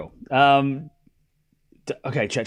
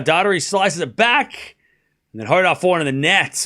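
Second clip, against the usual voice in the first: running tennis commentary, pitch lifting on key shots; live play-by-play; 3 semitones higher than usual. Acted. Commentator following a live rally for viewers, play-by-play. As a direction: call the rally shot by shot.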